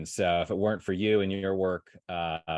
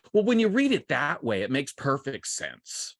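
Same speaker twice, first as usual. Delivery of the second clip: higher-pitched mock protest, easing off at the end; slightly annoyed students; 5 semitones higher than usual. Students grudgingly answering their poetry teacher, slightly annoyed. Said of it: "slightly annoyed, like".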